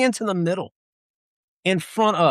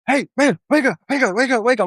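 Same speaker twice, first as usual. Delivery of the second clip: urgent wake-up call; 8 semitones higher than usual. Retold or imitated. Buddies waking him up.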